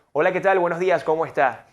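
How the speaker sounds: confident projected hello, "tal" and "días" firm; forceful greeting. Shown as a demonstration. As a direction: greet with strength from the diaphragm. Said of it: "que decir".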